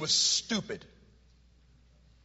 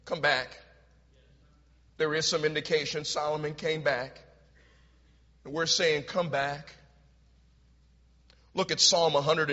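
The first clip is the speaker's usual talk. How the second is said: much softer and lower appeal; hushed, earnest altar-call tone; quiet pleading; 5 semitones lower, 6 dB quieter than usual. Acted. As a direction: plead gently to come back. Softer pleading part of the sermon.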